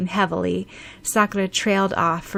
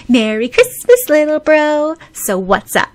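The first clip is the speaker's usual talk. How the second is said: big, high, cheery holler; enthusiastic shout; 8 semitones higher, 10 dB louder than usual. A narrator's reading. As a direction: shout an exuberant greeting down the phone. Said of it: "shouted enthusiastically".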